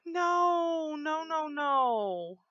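sudden high gasping no, no, no; panicked no. Real, not acted. Player panicking at a near fall, gasping high no. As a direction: panic as the character slips off the edge.

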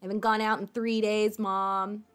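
lightly voiced eight-year-old boy; a touch of a bratty kid complaining to mom; little brat. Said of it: "eight-year-old boy. A little brat".

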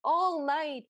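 drawn-out mimicked chorus echo; mock chorus of prisoners; prisoners chiming in. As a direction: echo it slowly like fellow prisoners joining in. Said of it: "all the other prisoners chime in".

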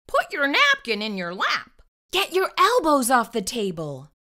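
strict etiquette nagging. Acted. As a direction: nag him at the table. String of table rules.

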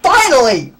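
loud burst of relief; relieved shout. Real, not acted. Gamer finally clears the level, shouting with relief. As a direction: let it all out at last. Relief after long struggle.

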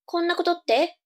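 put-on high cute anime girl. Girl answering her brother.

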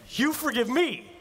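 high, slowed mock disbelief; hammed-up stunned repeat; incredulous. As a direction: pastor echoing an apology answer, in mock disbelief.

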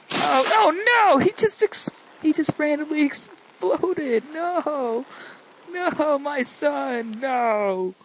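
hammed-up cry of loss, pitched high at first; mock anguish. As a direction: wail like a melodramatic parent, then let it fade. Mock grief as game child dies.

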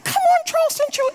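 very high, loud dog-calling coo; high-pitched pet voice. Retold or imitated. Pastor copying his wife calling the dog in, very high and loud. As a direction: mimic the wife's squeaky call. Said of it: "She just does like this".

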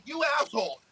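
mock rant at troll. Telling off a YouTube troll who brags about curls, in a hammed-up angry rant. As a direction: tear into the troll in a mock tirade. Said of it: "I'm like".

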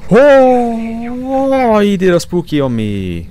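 high loud startled cry. Real, not acted. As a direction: yelp in fright. Scared by ghost.

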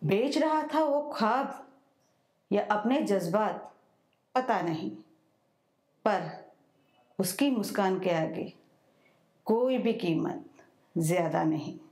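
measured recital in short phrases with pauses; poem recitation. Acted. Banker presenting her own new poem to an audience, measured recitation. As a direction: recite line by line, letting each phrase fall.

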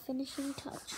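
whispered finishing touch. Pretend. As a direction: hush it like a secret. Quiet finishing touch moment.

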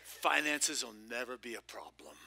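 said through a laugh. Retold or imitated. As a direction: chuckle the line out lightly. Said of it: "I'm telling you right now".

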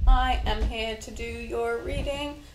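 lightly English-accented greeting. Real, not acted. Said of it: "I had an English accent there".

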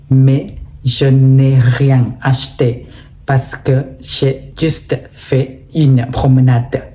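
unhurried model reading in French, phrase by phrase; slow, clear storytelling. Shown as a demonstration. Teacher reads a sample weekend story for exam learners, slow and clear. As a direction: tell it slowly and clearly, in a natural tone. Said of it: "ช้าๆ ชัดเจน ไม่ต้องรีบ ใช้โทนเสียงเป็นธรรมชาติ".

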